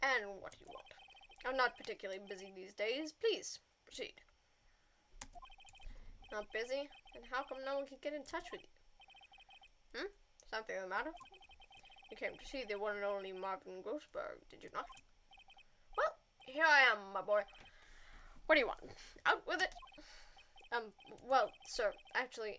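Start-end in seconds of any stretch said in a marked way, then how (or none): 0.0-14.8 put-on pompous old gent, booming by the end; blustery old lawyer. Grand old lawyer grilling the young lawyer, pompous and booming. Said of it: "I'm gonna give him a War Stash-esque voice". 16.0-19.7 put-on loud, impatient old-man bark; booming demand. Old lawyer losing patience with the visitor, booming demand.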